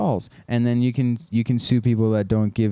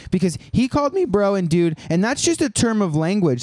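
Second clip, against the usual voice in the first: high put-on offended voice, much higher; mock offended person; 6 semitones higher than usual. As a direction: play the outraged victim calling the officer, pitched way up.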